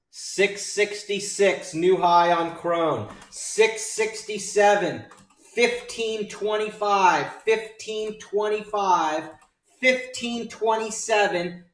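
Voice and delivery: loud, high, drawn-out victory calls; excited celebration. Real, not acted. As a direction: shout the winning numbers slowly to the room. Trader celebrates new highs live.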